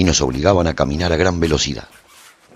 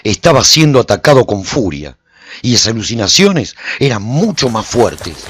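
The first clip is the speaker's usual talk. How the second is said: louder and higher to a peak on the last words; building urgent narration; 6 semitones higher, 8 dB louder than usual. A narrator's reading. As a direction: build to a breathless climax. Mind under attack, chasing foe.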